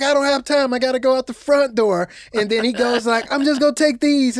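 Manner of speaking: in a fluster, no time; hurried Deacon. Retold or imitated. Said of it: "He's like".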